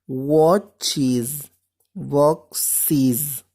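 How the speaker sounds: Watches and boxes with the ending said as is; teacher modelling the English plural ending. Shown as a demonstration. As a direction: give the ES in Watches a clear is sound. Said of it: "vamos a pronunciar como is".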